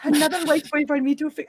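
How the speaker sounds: a botched Wakandan accent attempt that slips Irish; failed Wakandan accent. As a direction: try the Wakandan accent and lose it. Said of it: "I sound fucking Irish".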